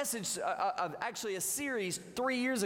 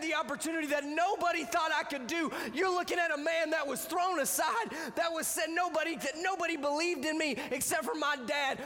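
preaching at full force; 6 semitones higher than usual. Acted. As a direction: lift it to a shouting climax. Preaching climax.

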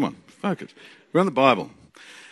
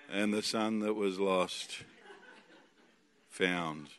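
much lower, very soft, slow and lifeless; dull mock reading; 8 semitones lower, 15 dB quieter, much slower than usual. Shown as a demonstration. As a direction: drag the words out without any joy. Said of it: "read the Bible a bit like this".

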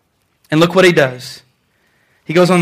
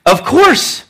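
higher, assured reply; brisk, self-assured comeback; confident Eve; 5 semitones higher than usual. Acted. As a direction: answer as if it's obvious. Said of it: "Now, she's confident".

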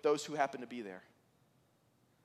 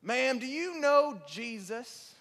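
1 trucker's blunt question; 6 semitones higher, much slower than usual. Retold or imitated. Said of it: "a trucker walks in and goes".

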